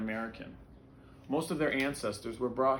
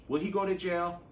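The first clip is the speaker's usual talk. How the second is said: put-on higher, louder child's worried question; young boy asking; 8 semitones higher, 5 dB louder than usual. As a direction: voice a small boy. Young boy asks about policeman.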